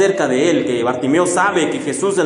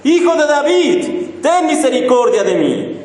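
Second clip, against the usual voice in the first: higher, pleading call; crying out louder; 6 semitones higher than usual. Retold or imitated. Beggar crying out over the crowd, called plea. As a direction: call past those hushing you. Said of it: "él clamaba mucho más".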